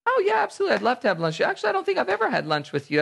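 high, quick, delighted yes; eager acceptance. Acted. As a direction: gush a friendly welcome. Models warm acceptance of lunch invite.

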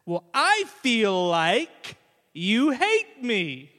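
mock hurt child; hurt little sister. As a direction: say it like a wounded five-year-old. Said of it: "she goes".

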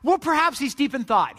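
mock-earnest reassurance; straight-faced sarcasm. Elijah reasoning about their silent god, straight-faced. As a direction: tease them while holding back the joke. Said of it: "keep a straight face as he's saying this".

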